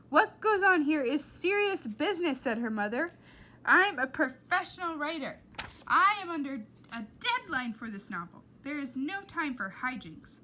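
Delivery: loud, high stern lecture; stern scolding. Acted. Mother lecturing Flora about the typewriter, stern. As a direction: scold with cold authority.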